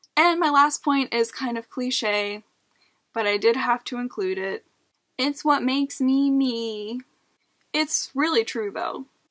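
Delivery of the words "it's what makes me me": nasal put-on voice, higher and slower. Giving a cliche last point about having SPD, the speaker uses a nasal put-on voice. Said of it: "[nasal voice]".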